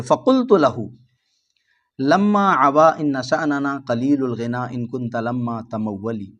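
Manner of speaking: measured classical Arabic verse recital; chanting a line of old Arabic poetry; poem recitation. Shown as a demonstration. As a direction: recite the couplet with a steady lilt.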